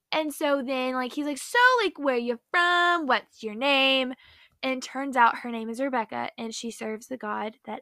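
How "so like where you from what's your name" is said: servant flirting. Retold or imitated. Servant chats up Rebecca.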